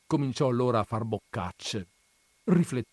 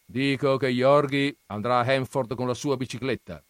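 lightly voiced scornful old grandfather, raised; gruff grandfather; 4 semitones higher, 5 dB louder than usual. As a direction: scoff at the books' dreamers. Grandfather decrees. (nonno burbero accennato, tono sprezzante)

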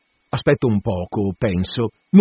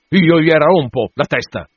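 a touch of fury, slightly louder; mild angry threat; 4 semitones higher, 4 dB louder than usual. Acted. Narrator threatens the landlord in mild anger. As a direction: snap it back, moderately enraged. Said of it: "feci imbestialito".

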